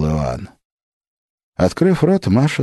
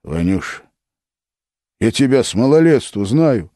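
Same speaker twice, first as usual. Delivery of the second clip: pleading; 6 semitones higher, 3 dB louder than usual. A narrator's reading. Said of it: "умолял Филипп".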